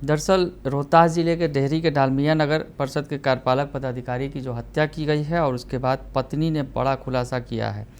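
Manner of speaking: brisk, emphatic TV news delivery; news anchor read. Acted. Anchor presents the murder story to viewers, news read.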